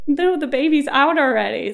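mock-incredulous correction; amused correction. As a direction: break the news, high and loud. Nurses correcting dad, laughing retelling.

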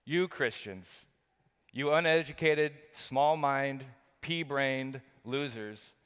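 imitating a scoffer, each insult set apart; sneering name-calling, drawn out at both ends; mock contempt. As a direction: hurl a measured list of insults. Acts out today's scoffers insulting Christians.

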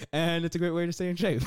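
high, loud surfer-dude quote; Family Guy quote. Retold or imitated. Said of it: "Where's that from? / Family Guy".

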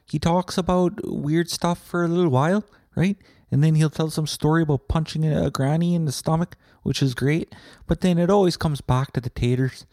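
high, put-on voice of an excited fan; gushing fan. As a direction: gush about the podcast in a silly high voice. Gushing fan voice about podcast.

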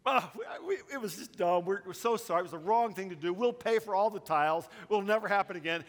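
blurted confession. Retold or imitated. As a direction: spill it all out in a panicked rush. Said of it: "we just blurted out our confession".

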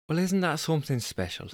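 put-on tentative stab at a Scottish accent; attempted Scottish accent. Jessica answering Angus, struggling Scottish accent. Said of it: "struggling with the voice of Jessica".

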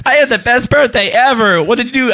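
put-on high, excited child voice; excited kid. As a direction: sound like a thrilled kid.

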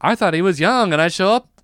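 nervous joke delivery, rising high on the punchline; nervous energy. Retold or imitated. Comic retelling his joke on stage, nervous energy. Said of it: "This was such nervous energy".

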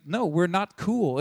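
slow, deliberate retold refusal; firm refusal. David answering the two killers, firm refusal. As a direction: shut down the chumminess, slowly.

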